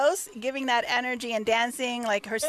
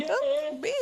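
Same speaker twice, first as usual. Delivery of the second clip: voice cracking; 5 semitones higher than usual. Real, not acted. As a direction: voice breaks with emotion. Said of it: "my voice cracked".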